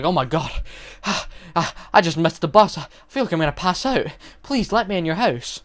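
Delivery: lightly acted panting, gasping ah ah between words; a touch of breathless pleading; mock out of breath. Gladys at the door, mildly faking being winded. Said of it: "she's all out of breath, she's panting".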